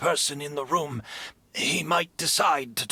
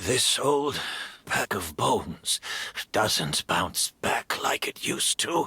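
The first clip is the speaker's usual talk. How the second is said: tired sigh; 2 semitones lower than usual. Acted. Injured old man admits weakness.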